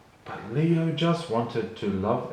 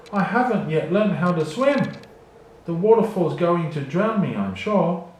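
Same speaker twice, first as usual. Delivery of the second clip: high, louder frightened pleading; panic; 6 semitones higher, 6 dB louder than usual. Acted. A cheetah swept downstream pleading in panic. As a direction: gasp it out like you're drowning. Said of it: "cried the cheetah in panic".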